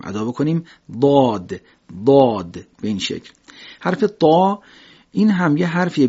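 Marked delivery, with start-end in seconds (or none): 1.0-1.6 ضاد said thick, tongue sides pressed; ضاد درشت; heavy emphatic dad. Shown as a demonstration. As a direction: give ضاد a full heavy sound. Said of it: "باید ما درشت ادا بکنیم".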